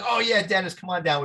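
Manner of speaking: a hint of the mentor calling you in; mentor greeting. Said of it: "Jim said".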